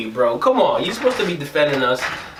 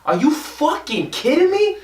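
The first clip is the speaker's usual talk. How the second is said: angry cop yelling; 10 semitones higher than usual. Retold or imitated. Angry cop yelling at a speeding rider. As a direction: yell it like a pissed-off cop. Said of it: "and he was pissed".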